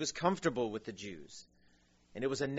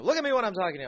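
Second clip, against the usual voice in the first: higher, louder mock scolding; worked up; 8 semitones higher, 7 dB louder, much faster than usual. Angry stranger scolding the security man at church, mock worked-up. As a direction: imitate an agitated man telling someone off. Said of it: "he's really worked up".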